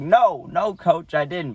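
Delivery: high, emphatic denial; mock innocent denial. Young catcher lying to his coach, insistent denial.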